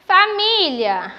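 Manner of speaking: "Família" slowly, with MÍ drawn out; called-out "Família", long stressed í; calling the word. Shown as a demonstration. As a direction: stretch the middle syllable of "Família". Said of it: "Eu chamo pela palavra".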